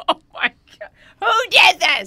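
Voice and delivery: mock horrified. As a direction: act scandalized at the mess. Mock outrage, retelling his discovery.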